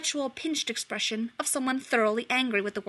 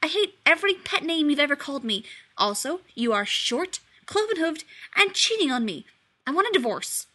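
scowling; 6 semitones higher than usual. Acted. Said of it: "Famine said with a scowl".

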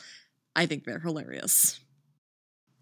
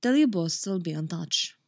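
put-on accented line, easing off the Russian; less Russian accent. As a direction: retake with the Russian accent toned down. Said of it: "that's too fucking Russian again".

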